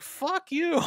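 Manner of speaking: high-pitched mock outburst of rage; mock angry. Podcaster acting out the hero's rage at the end, mock angry. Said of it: "he's angry. He's like".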